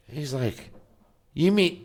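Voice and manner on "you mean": high, imitated angry disbelief; mock indignation. Grown son turning mad at Dad, mock indignant. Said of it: "then he gets mad".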